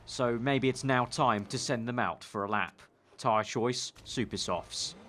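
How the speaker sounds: mock reality-show voiceover with a hint of Northern; Big Brother narrator. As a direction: narrate in a restrained Northern accent, not full strength. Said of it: "that Big Brother sort of day accent was".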